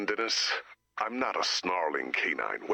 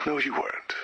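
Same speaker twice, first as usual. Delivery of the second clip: flat whispered put-down; dry whisper; 5 semitones higher than usual. Acted. Director whispering to the teammate who faked reading. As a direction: whisper the correction deadpan.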